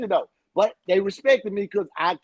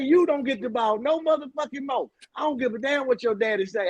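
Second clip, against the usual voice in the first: retold locker-room rant; 4 semitones higher than usual. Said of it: "I say".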